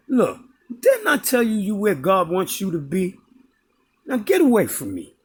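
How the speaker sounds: put-on firm, dismissive old lady; lightly voiced stern brush-off; imitating her tone. Old lady sending the beggar away, firm and dismissive. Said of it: "she said it like that".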